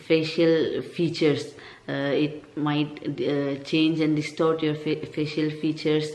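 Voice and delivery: slight lisp on "facial features" and "distort"; lisping s sounds in "features". Real, not acted. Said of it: "I'm sorry about the lisp".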